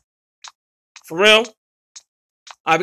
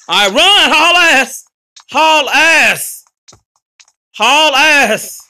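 raised, urgent push to flee; urgent calling out; 3 semitones higher, 4 dB louder, much slower than usual. Real, not acted. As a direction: urge them to get moving. Calling out as the chase starts.

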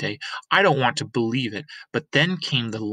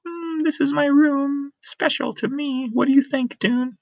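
put-on shy girl; 3 dB louder than usual. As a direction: show him your room, shyly. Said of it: "she looks a little bit shy".

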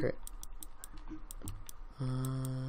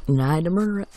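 mock anguish; 4 semitones higher, 7 dB louder, much faster than usual. Mock dramatic regret over bird.

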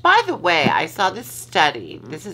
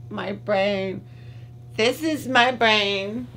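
high, slow announcer for the ad; mock PSA; 4 semitones higher, slower than usual. Parodying the brain-on-drugs ad, high and slow. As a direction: play the earnest narrator of the old ad.

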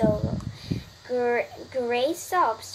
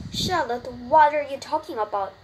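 crying out; 3 semitones higher, 6 dB louder than usual. Acted. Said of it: "he cried".

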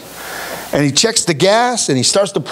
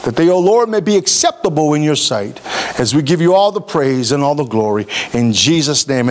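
prayer; 3 semitones lower than usual. Acted. Opening prayer before sermon.

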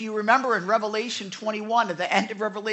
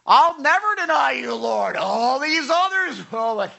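loud, proud declaration; bold vow; 5 semitones higher, 9 dB louder, slower than usual. Retold or imitated. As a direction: boast it out loud like you mean it.

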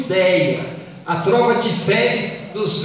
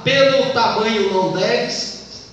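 slow, measured scansion of the line; deliberate teacher's verse demonstration; counting poetic syllables; slower than usual. Shown as a demonstration. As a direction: recite it slowly so the syllables can be counted. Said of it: "Se conta a sílaba".

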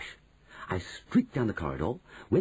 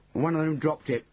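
lightly voiced greedy boy, higher pitched; higher-pitched voice of a gobbling boy; greedy boy mouse; 8 semitones higher than usual. A narrator's reading. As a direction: answer offhand, busy with food. Bruno answers while gobbling his sandwich.

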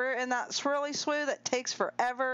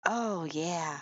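low, satisfied "oh yeah"; low playful character voice; voicing a player; 6 semitones lower than usual. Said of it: "And Sprinkle Tinkle said".

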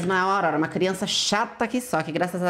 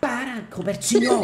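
laughing protest; 5 semitones higher, slower than usual. Real, not acted. Laughing while telling child stop.

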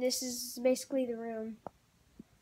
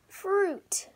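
whispering; 8 semitones higher, 5 dB louder than usual. Real, not acted. Back to review.

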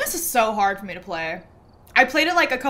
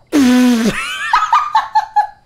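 elephant trumpet attempt; 9 dB louder than usual. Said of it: "maybe I can do a better one".

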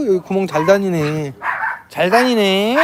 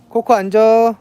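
talking to a dog; 3 semitones higher than usual. Real, not acted. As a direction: coax the dogs like a trainer. Training the dogs to greet. (강아지한테 말하는 말투)

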